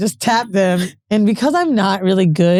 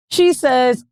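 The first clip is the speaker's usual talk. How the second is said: ordinary talk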